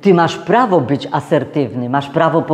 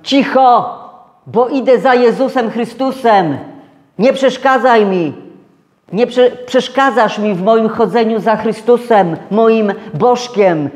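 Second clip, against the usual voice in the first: mock a pious man snapping back; irritated shushing; 5 semitones higher than usual. Self-righteous believer silencing the beggar, higher annoyed tone. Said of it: "a ja odpowiadam".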